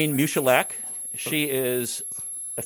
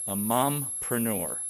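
mompreneur drawn out slowly, relished; savoring the word; slower than usual. Shown as a demonstration. Cohost savoring a favorite word, slow and relished. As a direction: linger on mompreneur with delight. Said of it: "I love this word".

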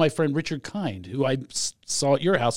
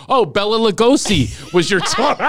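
laughing joke; 3 semitones higher, 6 dB louder than usual. Retold or imitated. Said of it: "I was gonna go".

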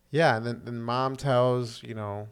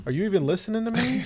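impatient Dodd; 9 semitones higher, 3 dB louder, faster than usual. Retold or imitated. Dodd's annoyed question, retold.

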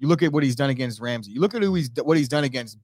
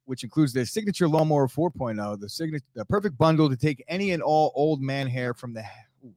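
sponsor ad read; 3 semitones higher than usual. Acted. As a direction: push the sponsor copy with gusto. Cohost resumes sponsor read.

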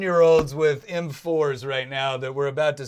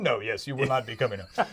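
the grim line again, broken by a laugh; laughing verdict; 6 semitones lower, 4 dB quieter than usual. Pretend. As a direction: try to stay grave but laugh through it. Same verdict, now laughing.

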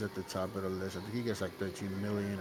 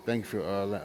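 ordinary talk, nothing marked

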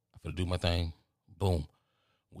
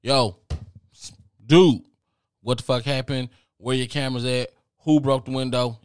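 loud, higher, furious demands; angry yelling; 4 semitones higher, 7 dB louder than usual. Retold or imitated. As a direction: yell at the clerk over the broken window. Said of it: "she go".

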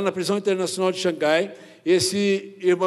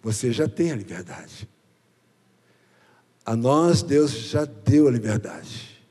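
lower, hushed and slow inner voice of God; 8 semitones lower, slower than usual. Retold or imitated. Preacher voicing God speaking to his heart, low and hushed. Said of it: "Deus falou no meu coração assim".

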